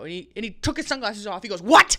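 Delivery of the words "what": high, loud shocked yelp; shocked what. Retold or imitated. Man hears they ate the whole bar, shocked. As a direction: blurt it out in disbelief.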